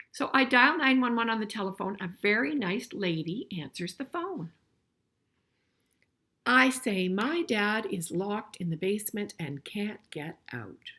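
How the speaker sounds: storybook reading voice; story reading. A narrator's reading. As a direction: read it out clearly for the class. Reads the picture book aloud.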